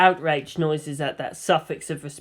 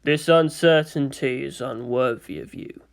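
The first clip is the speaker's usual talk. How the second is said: stern space marine; 3 semitones lower than usual. Acted. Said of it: "he seemed to say".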